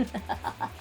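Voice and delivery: soft villainous chuckle; evil laugh. Acted. Tiger laughs at the captive on the floor, evil chuckle. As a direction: chuckle low in volume like a gloating villain. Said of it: "Tiger starts laughing evilly".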